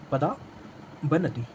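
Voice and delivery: पदावनति stretched very slowly, syllable by syllable; drawn-out word. Shown as a demonstration. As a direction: spell out पदावनति slowly and softly so students catch each sound. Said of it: "तो वो कहलाता है हमारा पदावनति".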